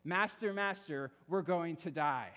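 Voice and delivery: a preacher's half-acted panicked cry; mock yell. Disciples waking Jesus in the storm, mock panicked yell. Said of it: "they wake up Jesus by yelling this".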